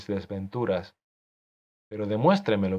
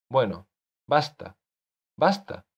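sharp angry cry of basta, the second one higher; exclaimed angrily; 3 semitones higher than usual. Acted. Author to his character, losing patience. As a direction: slam it down like a fist on the table. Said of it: "exclamé dando un puñetazo".

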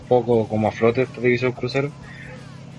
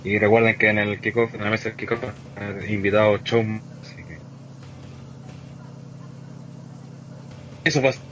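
choppy, robotic online call audio; broken-up voice over a bad connection; laggy robotic connection; 3 dB quieter than usual. Real, not acted. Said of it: "te escucháis súper lag".

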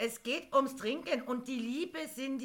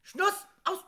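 gespielt energisches Abwürgen; 6 semitones higher, 8 dB louder, slower than usual. Acted. Moderator würgt Kollegin ab.

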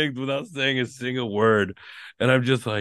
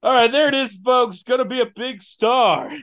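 announcer voice; 9 semitones higher, 4 dB louder than usual. Acted. Mock announcer to folks.

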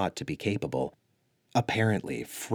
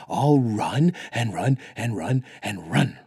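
loud, high and urgent little dog voice; an eager dog shouting run; telepathic doggy voice; 3 semitones higher, 5 dB louder than usual. Acted. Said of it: "in her telepathic doggy voice".

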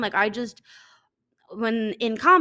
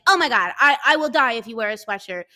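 louder, shocked mom voice; mom's horrified exclaim; 6 dB louder than usual. Retold or imitated. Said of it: "my mom's like".

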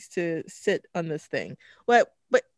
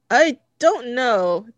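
higher and louder, laughing through real tears; crying, laughing; 10 semitones higher, 10 dB louder than usual. Real, not acted. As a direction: fight back tears with a laugh. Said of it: "I'm gonna be crying on camera".

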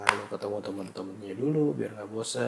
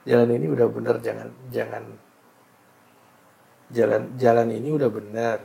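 emphatic proclamation; 8 dB louder than usual. Real, not acted.

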